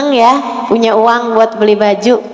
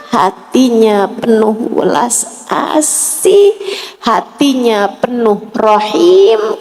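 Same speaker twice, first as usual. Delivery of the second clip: slow tender; 3 semitones lower, slower than usual. Acted. Preacher slows on mercy.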